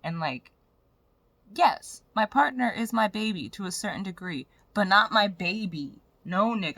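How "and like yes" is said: normal talking voice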